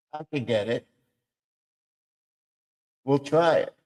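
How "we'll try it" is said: voice try. Shown as a demonstration. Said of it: "By just doing a voice like that".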